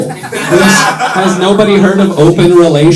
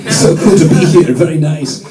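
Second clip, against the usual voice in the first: lightly put-on Finnish tourist accent; a hint of a Finnish tourist, stiff and polite. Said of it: "I look like a Finnish tourist".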